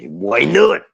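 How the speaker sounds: lightly voiced wrestler, rising question; put-on indignant wrestler voice; Macho Man impression. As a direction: challenge it with an upward swoop. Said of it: "Macho Man story".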